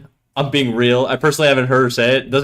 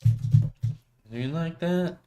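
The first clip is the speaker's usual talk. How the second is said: mock screaming voice; 5 semitones higher, 6 dB quieter, much slower than usual. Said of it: "You like my screaming voice?".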